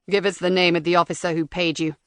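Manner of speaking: cold robotic interrogator. Acted.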